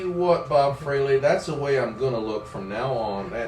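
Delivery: low put-on country drawl; folksy mock drawl; brother's country drawl. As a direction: insist like a stubborn country boy. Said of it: "he talks like this every time".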